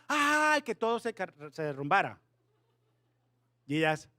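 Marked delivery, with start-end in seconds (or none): 0.1-0.6 high, held "aaah"; mock scream, pitched way up; acted superpower scream. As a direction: demonstrate the mighty yell without full volume. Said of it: "cuando gritaron, el superpoder era".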